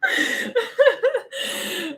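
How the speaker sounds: high, real fit of laughter; helpless laughter. Real, not acted. Reader cracking up at their own accent, helpless laughter.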